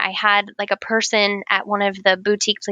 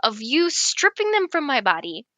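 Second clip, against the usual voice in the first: mock indignant; 5 semitones higher than usual. Retold outraged refusal in shop.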